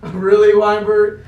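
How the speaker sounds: laughing. Real, not acted. Laughing at him.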